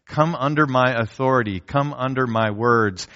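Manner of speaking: put-on God inviting his child under his authority, tender; gentle call. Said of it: "And God says".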